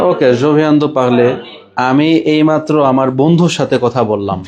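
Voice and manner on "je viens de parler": slow model sentence. Shown as a demonstration. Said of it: "এইভাবে বারে বারে practice করতে হবে".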